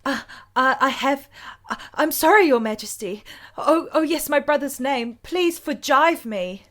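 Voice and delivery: flustered apology. Acted. Flustered character apologizing to Queen.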